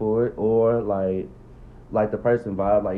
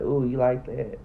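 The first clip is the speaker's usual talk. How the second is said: mocking a vocal lover; 2 semitones higher, slower than usual. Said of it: "I don't know, like".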